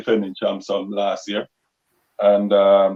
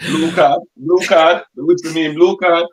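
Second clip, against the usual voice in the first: excited call-out; 7 semitones higher, 6 dB louder than usual. Real, not acted. Guest jokes about whistle meaning.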